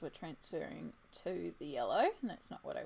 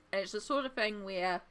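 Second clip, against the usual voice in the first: talking while chewing; words around a bite of food; mouth full. Real, not acted. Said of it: "I'm eating".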